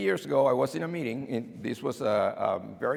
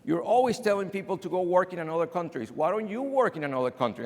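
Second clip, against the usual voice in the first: student's challenge; 5 semitones higher, faster than usual. Acted. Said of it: "sometimes my students tell me".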